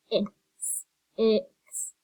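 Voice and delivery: "ix" with the short vowel of six; short I sound. Shown as a demonstration. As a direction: sound out "ix" with a short ih, not eye. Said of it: "Instead of I".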